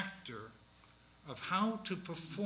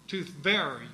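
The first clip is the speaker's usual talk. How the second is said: "To very" louder, stress on the first syllable of "very"; printers' rhythm; 5 dB louder than usual. Shown as a demonstration. Professor showing students the folio rhythm, stressed. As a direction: hit VER in "To very". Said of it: "should be pronounced as three syllables".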